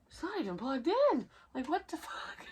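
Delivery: high, startled nurse voice; a nurse who can't believe the machine is beeping; high-pitched and rattled, half laughing; shocked nurse. Retold or imitated. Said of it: "She was like".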